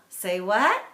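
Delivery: loud chanted call-back; loud playful response; kids' call-back. Shown as a demonstration. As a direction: call it out like the kids answering. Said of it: "So here's an example".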